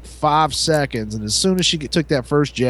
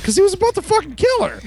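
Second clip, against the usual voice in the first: retold exclaim; faster than usual. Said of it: "And I was like".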